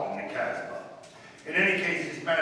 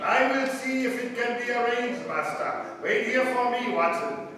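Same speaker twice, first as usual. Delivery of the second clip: Arab guide disguise; 7 semitones higher than usual. Acted. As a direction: play a fawning hired guide. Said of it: "adopted the disguise of an Arab guide".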